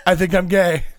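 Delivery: teasing impression of a fretting man; mock worried confession. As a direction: act out his worried realization, hammed up. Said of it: "He's so worried that he's gonna be like".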